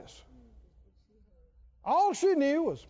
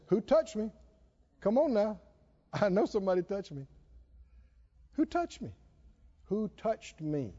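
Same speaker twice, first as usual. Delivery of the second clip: insistent questioning; 3 semitones lower, 4 dB quieter than usual. Acted. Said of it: "He keeps saying".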